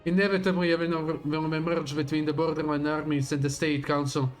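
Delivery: dramatic villain reading; grand, menacing speech to an enemy; villain monologue. Acted.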